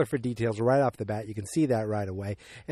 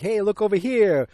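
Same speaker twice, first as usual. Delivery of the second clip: calling out; 8 semitones higher, 7 dB louder than usual. Retold or imitated. Stepdad calls out about horse.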